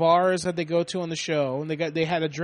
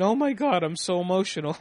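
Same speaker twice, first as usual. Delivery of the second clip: mock emotional; 2 semitones higher than usual. Joking at the Jersey Shore house, mock emotional. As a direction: fake being overcome, tongue in cheek. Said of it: "And I start saying".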